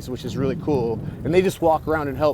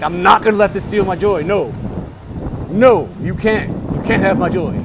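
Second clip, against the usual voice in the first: forcing calm; 5 semitones higher, 5 dB louder than usual. Retold or imitated. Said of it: "trying not to be mad".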